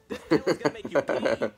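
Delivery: booming declaration; loud proclamation. Acted. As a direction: announce it loudly. Doctor proclaiming loudly.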